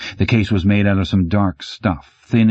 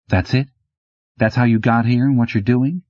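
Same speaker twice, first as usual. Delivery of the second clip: put-on lightly raised, disbelieving young woman; incredulous; 5 semitones higher than usual. A narrator's reading. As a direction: ask it like she can't believe that's all. Incredulous female character.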